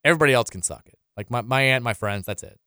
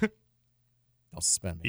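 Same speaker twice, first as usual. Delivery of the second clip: very slow mock plea; 6 semitones lower, 9 dB quieter, much slower than usual. Jokey plea after crude joke.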